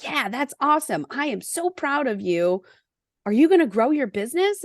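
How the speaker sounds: lightly imitating a coworker, brighter and quick at the end; a hint of an enthusiastic colleague applauding; mock cheerful praise. Coworker cheering the resignation, lightly mock excited.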